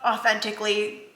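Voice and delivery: mom choking up over her son's graduation, tearful; tearful, holding back. Real, not acted. Real tears, fighting to keep talking. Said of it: "I knew I was gonna cry".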